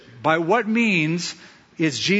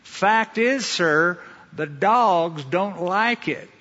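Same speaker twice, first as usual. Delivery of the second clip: lightly Southern call, drawn out; mock Southern shout; 3 semitones higher, much slower than usual. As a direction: call it across a crowd with a touch of the American South. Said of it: "shouted across the crowd saying".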